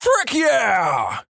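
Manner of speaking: high imitated shout back; mock scream. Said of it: "so he immediately screams".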